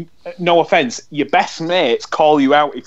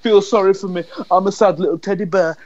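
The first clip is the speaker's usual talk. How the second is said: mocking whine; 3 semitones higher, faster than usual. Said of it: "He's played the victim card".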